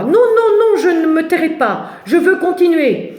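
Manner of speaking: agitated shout. Acted. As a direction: cry out in agitation. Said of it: "Me hurlait-il dans les oreilles".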